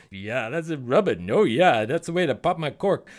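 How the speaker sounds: suggestive genie. Acted. Genie voiced, being rubbed.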